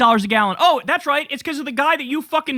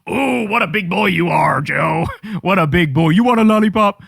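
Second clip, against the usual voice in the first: put-on condescending lower coo, like praising a toddler; sugary mock praise for a child, getting louder at the lollipop; mocking baby talk; 4 semitones lower, 4 dB louder than usual. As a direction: talk down to him like a little kid. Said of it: "in a very soft voice".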